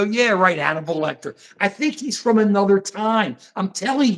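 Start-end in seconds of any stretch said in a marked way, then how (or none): 0.0-1.4 mock unimpressed agreement; mildly sarcastic, pitch sinking away; dismissive mimicry. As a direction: imitate a skeptic brushing it off. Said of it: "And we go".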